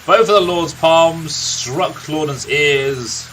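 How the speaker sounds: a lightly voiced grizzled old storyteller, unhurried; a gruff old warrior recounting his friend's youth; storyteller NPC. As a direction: tell the tale like a weary veteran by the fire.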